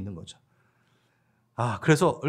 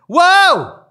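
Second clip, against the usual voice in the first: much higher and louder, an exultant shout; joyful whoop; 4 semitones higher, 8 dB louder, much slower than usual. Retold or imitated. The disciples rejoicing together, loud excited whoop. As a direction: whoop it out with pure delight. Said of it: "막 이러면서".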